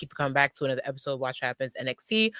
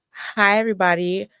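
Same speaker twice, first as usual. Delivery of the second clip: playful New Jersey accent greeting; 3 semitones higher, 4 dB louder than usual. Shown as a demonstration. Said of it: "In my Jersey accent".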